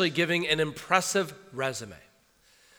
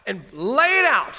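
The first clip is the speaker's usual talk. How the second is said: higher, fast, animated Paul listing achievements; acting as Paul; 7 semitones higher, 3 dB louder than usual. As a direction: rattle it off as Paul, emphatic. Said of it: "Paul says".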